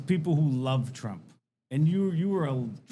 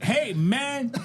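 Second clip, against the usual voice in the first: laughing mock French accent, higher; a joking French guy greeting, pitched up; 9 semitones higher than usual. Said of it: "That's my French accent".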